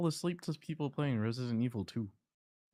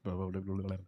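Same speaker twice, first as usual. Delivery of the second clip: bored, droning blah blah; monotone; faster than usual. Shown as a demonstration. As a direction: drone it out with no life. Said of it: "My voice is, like, monotone".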